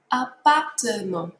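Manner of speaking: Appartement with all four syllables a-par-te-ment. Shown as a demonstration. Teacher shows the four syllables of appartement. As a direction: tap out each syllable of Appartement. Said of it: "This one has four syllables".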